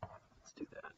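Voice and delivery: a quick real whisper to himself. Real, not acted. Teacher muttering to himself mid-lesson, whispered. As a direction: whisper the aside off-mic. Aside while fixing battery.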